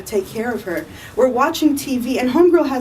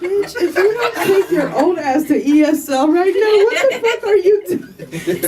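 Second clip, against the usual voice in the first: higher, laughing outrage; mock exasperated rant; 8 semitones higher than usual. Telling grandma to go learn English, laughing outrage. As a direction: scold her through laughter.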